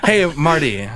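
lightly voiced hip cat greeting; a hint of a swinging daddy-o; cool beatnik. Bit between hosts.

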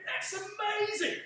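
high, slow drawn-out amazement; amazed. Retold or imitated. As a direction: marvel at it, stretching the words. Telling old man his age amazes.

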